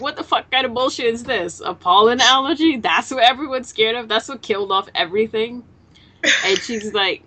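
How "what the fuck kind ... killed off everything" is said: high, incredulous retold rant; outraged Toriko. Toriko scoffs at the flower warning, high and incredulous. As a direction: squeak out his disbelief at the pollen. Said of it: "So Torko's like".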